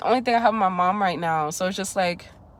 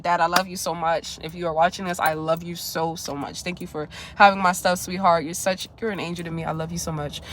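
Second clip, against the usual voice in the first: soft, sincere thanks, much softer; tender thanks to dad; 5 semitones lower, 4 dB quieter than usual. Real, not acted. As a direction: speak softly straight to your father. Message of thanks to her dad.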